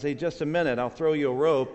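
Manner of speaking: storyteller's restrained holler; calling out. Acted. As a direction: call down to someone below. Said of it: "So he screams out".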